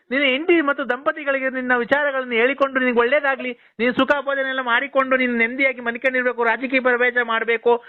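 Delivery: one long unbroken stream of words; non-stop run-on. Real, not acted. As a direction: keep reeling it off without a break. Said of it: "ಹಿಂಗೆ ಒಂದೇ ಸಮಕ್ಕೆ ಹಂಗೆ ಹೇಳ್ಕೊಂಡು". (ಒಂದೇ ಸಮನೆ ನಿಲ್ಲಿಸದೆ ಮಾತು)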